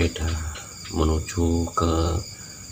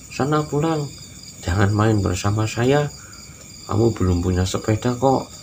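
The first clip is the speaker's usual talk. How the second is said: mocking taunt; 3 semitones higher than usual. Teman-teman mengejek anak miskin.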